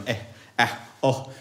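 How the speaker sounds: hesitant "Eh, ah, oh" with no consonants; stuttering nervous noises. Shown as a demonstration. Awkward at a party, stammering at Lucy with no confidence. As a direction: fumble for words, all vowels. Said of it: "stuttering out with a total lack of confidence".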